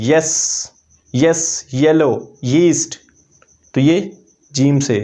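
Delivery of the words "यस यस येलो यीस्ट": यस, यस, येलो, यीस्ट each opened with a clear Y glide; Y sound demo. Shown as a demonstration. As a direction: demonstrate the initial Y in यस, येलो, यीस्ट, word by word. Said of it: "ये sound ये की है".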